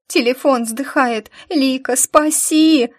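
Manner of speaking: high, loud, slow wail on спаси; desperate wail. A narrator's reading. Girl's phone dying, howls desperately to Lika for rescue. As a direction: howl for rescue. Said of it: "взвыла она".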